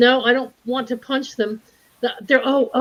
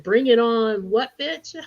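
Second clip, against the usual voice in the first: mock challenge; slower than usual. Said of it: "I would have said".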